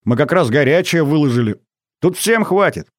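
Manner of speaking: high, eager welcome; exclaiming. A narrator's reading. Girl guest inviting mother to eat, exclaiming. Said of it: "воскликнула Аля".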